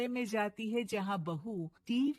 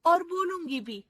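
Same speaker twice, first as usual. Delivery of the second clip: loud, higher defiant comeback; defiant retort; 5 semitones higher, 7 dB louder than usual. Acted. Daughter-in-law defiantly answers mother-in-law back, loud. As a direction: stand up to her loudly.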